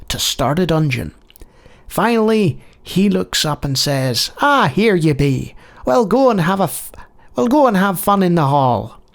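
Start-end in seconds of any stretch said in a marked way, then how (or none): 4.4-9.0 lightly put-on Irish accent; attempted Irish accent. Irishman sending a newcomer into the hall, in a light Irish accent. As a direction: have a go at a burly Irishman's accent. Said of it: "Thank you, Irish person".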